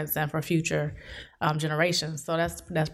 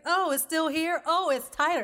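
alarmed; 8 semitones higher than usual. Retold or imitated. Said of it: "they like".

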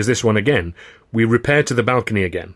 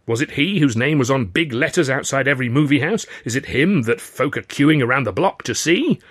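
Charlie's voice; 5 semitones higher, 3 dB louder than usual. Retold or imitated. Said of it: "and I said".

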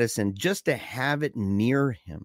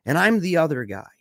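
higher, sharper mock outburst; retold snap; 5 semitones higher, 3 dB louder than usual. Andy finally snapping at Michael, mild mock outburst. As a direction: lightly snap back at last. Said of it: "he snaps and he goes".

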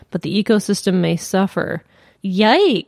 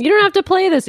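mock apologetic caller; 10 semitones higher, 3 dB louder than usual. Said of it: "always call and they're like".

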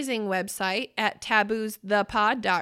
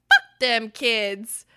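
slow, weighty fierce line; fierce kid voice; 6 dB louder, much slower than usual. Retold or imitated. Daughter imitated answering mom: slow fierce vow. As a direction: lean into every word like she means it. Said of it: "the most powerful, vicious, fierce".

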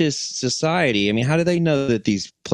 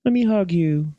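higher, laid-back hippie voice; hippie alien; 7 semitones higher than usual. Retold or imitated. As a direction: mellow stoner alien. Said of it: "They could be like".

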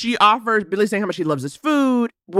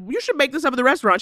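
relatives; 8 semitones higher, much faster than usual. Retold or imitated. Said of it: "'cause they're like".

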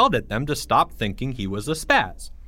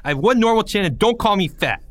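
put-on higher and louder, angry kid; angry outburst; 10 semitones higher, 5 dB louder than usual. Porge yelling at Greg not to call him fat, angry and raised. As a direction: bite back hard at the bully.

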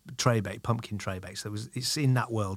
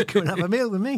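witch voice; 9 semitones higher, 3 dB louder, faster than usual. Pretend.

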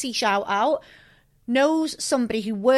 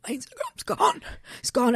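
mock panic; 2 semitones higher, 3 dB quieter than usual. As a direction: replay the shock, half hammed-up. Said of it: "And I was like".

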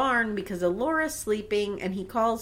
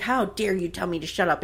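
restrained mock indignation, no shriek; in-your-face challenge; 3 semitones lower than usual. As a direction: imitate a contained face-to-face confrontation. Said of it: "she gets right in his face".

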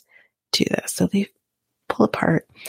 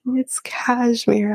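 breathy whispered, slow and higher: "It's cashmere."; mock Sean whisper; 5 semitones higher, much slower than usual. Mocking Sean's scarf excuse with a high, slow whisper. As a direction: whisper it back slowly, savoring the absurdity. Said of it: "And he says".

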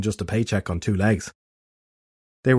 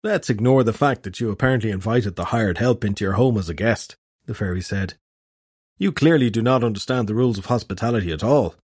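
haughty fairy. Acted. Fairy Nick lectures.

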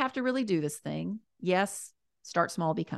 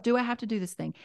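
grown-up voice; 4 semitones higher, faster than usual. Shown as a demonstration. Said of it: "And in a grown-up voice".

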